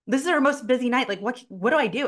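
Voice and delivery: lightly acted fluster; mild retold panic. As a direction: imitate a client fretting on the phone. Acts out client's panicked call.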